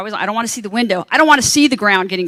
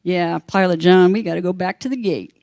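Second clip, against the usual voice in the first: attendant phoning pilot; 4 semitones lower than usual. Retold or imitated. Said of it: "she goes over to the phone".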